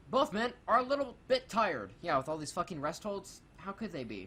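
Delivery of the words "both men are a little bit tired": high, loud mock announcer delivery; mock the commentary, pitched up and emphatic; quoted commentator. Mocking the match commentary on rest holds, exaggerated announcer. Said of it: "we had a quote".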